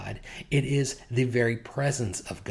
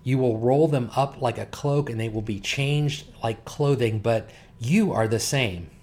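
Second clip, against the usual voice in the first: louder, measured public reading of the passage; louder formal Bible reading; scripture reading; 3 dB louder than usual. Acted. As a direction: proclaim the text to the congregation. Reads scripture aloud.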